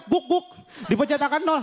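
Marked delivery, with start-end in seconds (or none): 0.0-0.5 higher, barking "guk guk"; imitated keypad noise. Comic demonstrating a broken handphone's key sound, imitated noise. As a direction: mimic a broken phone's beeps as barks.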